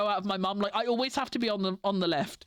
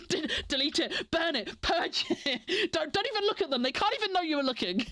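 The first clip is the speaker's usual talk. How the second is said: giggly panicked orders, pitched up; mock frantic purge; frantic laughing panic; 3 semitones higher than usual. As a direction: rush it like hiding evidence. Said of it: "And just like".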